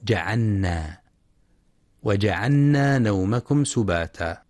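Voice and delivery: جعلنا said as "ja'anna", no lam; wrongly assimilated lam in جعلنا; lam merged into nun. Shown as a demonstration. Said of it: "اللام في النون فيلفظها نونا".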